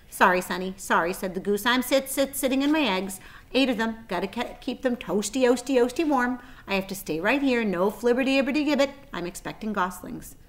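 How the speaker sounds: flustered mother goose, sit sit sitting; fussy goose. Acted. Goose fussing to Wilbur about her eggs, stuttering.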